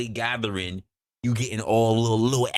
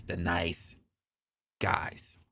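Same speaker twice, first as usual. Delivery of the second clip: whisper; 9 semitones lower, 6 dB quieter, much slower than usual. Acted. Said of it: "whispered aside".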